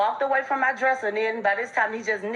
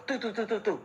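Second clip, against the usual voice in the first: imitated gunshots; 6 dB quieter than usual. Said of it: "all I heard was".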